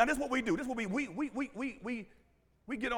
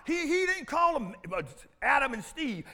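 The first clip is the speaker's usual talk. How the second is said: preacher's shout; 3 semitones higher, 5 dB louder than usual. Retold or imitated. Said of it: "But if I say".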